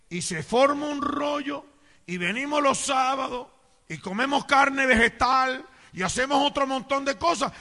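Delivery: insistent, high-pitched pulpit delivery; forceful preaching. Acted. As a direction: build up the list from the pulpit. Preacher lists church habits forcefully.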